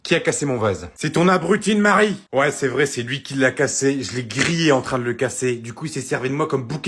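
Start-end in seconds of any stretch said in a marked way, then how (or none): 1.0-2.2 loud, higher blaming yell; accusing shout. Acted. Blames her husband for the vase, shouting. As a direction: point the finger hard.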